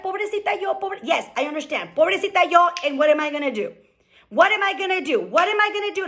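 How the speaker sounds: lightly whiny poor-me in Spanish; mock self-pity. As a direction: mimic a helpless victim, half-joking. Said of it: "Are you gonna be like".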